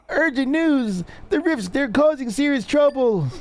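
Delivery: urgent soldier voice. Acted. Soldier reporting to king.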